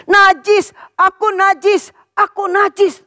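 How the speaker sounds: high sorrowful cry of unclean; mournful, the right way. Shown as a demonstration. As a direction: lament it as a real sufferer. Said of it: "Tapi dia berkata begini". (ratapan sedih yang tinggi, cara yang benar)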